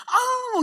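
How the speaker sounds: very high, loud mock coy squeal; hammed-up cute groan at the trainer. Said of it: "이런 소리가 나는데".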